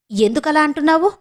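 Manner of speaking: fearing the worst; frightened. Acted. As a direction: sister asking in sudden fear. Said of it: "భయంగా అడిగింది మేనక".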